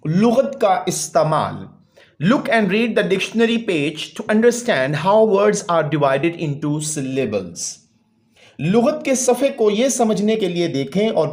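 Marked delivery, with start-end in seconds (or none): 2.3-7.8 slow, deliberate textbook reading; slow read-aloud. Real, not acted. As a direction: read it out word by word for a class. (ٹھہر ٹھہر کر سبق پڑھنا)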